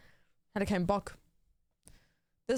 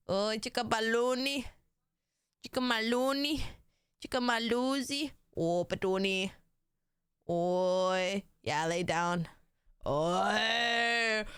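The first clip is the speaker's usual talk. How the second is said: pet talk. Real, not acted. Cooing nicknames at pet.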